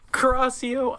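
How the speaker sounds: hammed-up high spell shout. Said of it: "I shitted pointing my wound".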